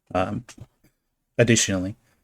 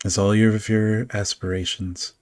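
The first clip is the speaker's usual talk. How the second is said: dark scene setting. A narrator's reading. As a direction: draw them into the cold dark.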